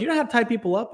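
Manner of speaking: high mock quote of the partner; imitating partner. Teasing his cohost by quoting him, high mock voice. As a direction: squeak his line back at him. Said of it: "you're like".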